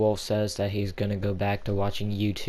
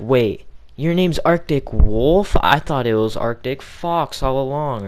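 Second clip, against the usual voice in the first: high, loud startled outburst; shocked friend impression; 4 semitones higher, 7 dB louder than usual. Streamer voicing a friend's shock in group chat, startled high outburst. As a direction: imitate a friend caught totally off guard. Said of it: "my best impression of him".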